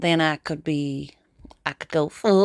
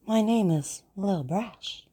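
posh high-society accent, drawn-out name; 3 semitones higher, slower than usual. Shown as a demonstration. Playing high society introducing oneself, posh accent. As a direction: put on an upper-class accent. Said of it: "from the high society".

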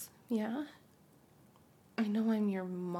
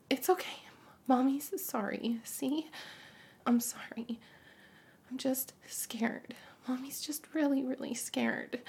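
soothing whisper; 2 semitones higher than usual. Acted. Mother whispering apologies to calm her son. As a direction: hush him gently, scared. Calming son after outburst.

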